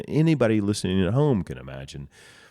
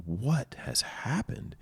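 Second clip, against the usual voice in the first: hushed, stunned whisper, slow; shocked whisper; 7 semitones higher, 6 dB quieter, slower than usual. Retold or imitated. Telling how he whispered to his crying friend in shock. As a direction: breathe it out in disbelief.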